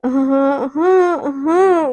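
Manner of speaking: stammered yes, half crying; can't get words out; choked yeses. Acted. Devika to Neha, choked and tongue-tied. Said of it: "ना कुछ नहीं बोल पा रही".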